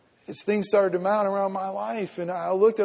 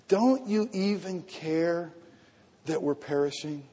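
hushed plea; 2 semitones lower, 6 dB quieter than usual. Acted. Pastor echoes the disciples' plea.

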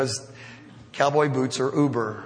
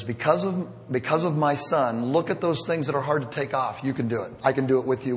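tender fatherly voice; 2 semitones lower, 3 dB quieter than usual. Retold or imitated. God the Father speaks to us.

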